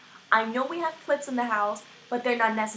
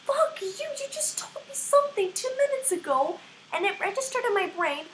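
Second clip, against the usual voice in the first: retold yell; 11 semitones higher than usual. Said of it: "And I'm just like".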